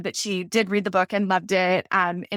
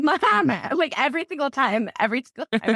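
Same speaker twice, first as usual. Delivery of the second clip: exasperated mom; 5 semitones higher than usual. Retold or imitated. Exasperated retort to her mom.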